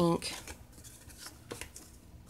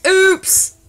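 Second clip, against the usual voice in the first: surprised; 13 semitones higher, 13 dB louder than usual. Real, not acted. Caught forgetting recording.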